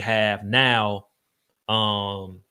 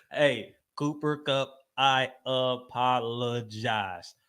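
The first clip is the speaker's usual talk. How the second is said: slow sincere apology; much slower than usual. Pretend.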